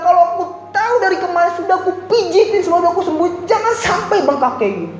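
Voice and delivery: high, hurried mock lament; acted tearful scolding, pitched high; wailing cry. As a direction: imitate a parent crying in distress. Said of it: "Dia nangis nyerit".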